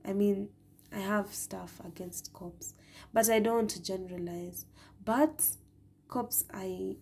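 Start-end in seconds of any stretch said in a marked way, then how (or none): 0.9-2.7 half-secret whisper; whispered aside. Real, not acted. Confessing aside about cops. 6.1-7.0 a hushed half-word whisper; whispered aside. Real, not acted. Confessing aside about cops.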